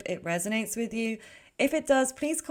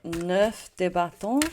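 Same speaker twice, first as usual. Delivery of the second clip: French accent; 2 semitones lower, 3 dB louder, slower than usual. Real, not acted. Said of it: "I'm butchering the French accent".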